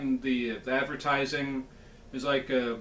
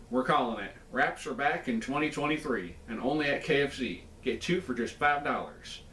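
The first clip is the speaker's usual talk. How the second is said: lightly voiced Colonel Sanders; a hint of a folksy old Southern colonel; pompous sputtering colonel. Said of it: "let me do that in the Colonel's voice".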